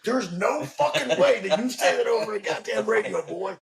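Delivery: imitating a mocking officer; scoffing officer. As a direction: sneer it at the new guy.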